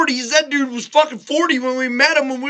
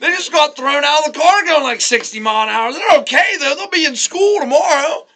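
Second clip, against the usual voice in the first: higher-pitched, blithe dismissal; breezy reassurance; 5 semitones higher than usual. Retold or imitated. Kid reports friends' car crash as no big deal, breezy reassurance. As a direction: wave off the alarm.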